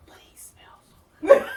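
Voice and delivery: high, loud, breathless gush. Real, not acted. Telling a friend about the Marine, loud high gushing. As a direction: swoon over how good he smelled.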